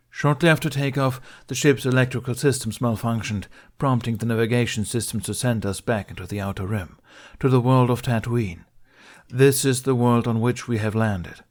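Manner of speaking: Jedi addressing a crowd. Acted. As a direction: speak up to fill a cargo bay.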